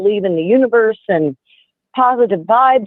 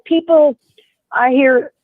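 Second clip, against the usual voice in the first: choked up; 5 semitones higher than usual. Real, not acted. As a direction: voice catching, fighting tears. Caller tearing up over fires.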